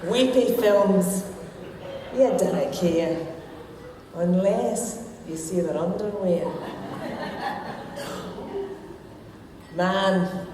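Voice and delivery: broad Scots comic poem recital; Scottish accent. Shown as a demonstration. Woman reading her wee poem to the lassies' men, Scottish accent. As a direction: recite rhyming verse in a Scottish accent, pausing for laughs. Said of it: "read this in my Scottish accent".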